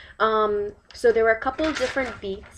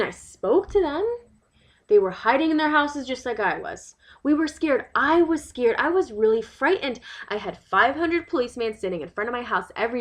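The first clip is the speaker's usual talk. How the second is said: aggrieved local mother telling her side; lightly acted, emphatic monologue of an upset resident; 3 semitones higher, 3 dB louder, faster than usual. Resident explains the August riots to a visitor, aggrieved.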